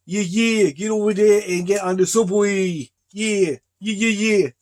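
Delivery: put-on brash New Yorker with a New York accent telling you to get on the subway. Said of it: "I do a pretty good New York accent".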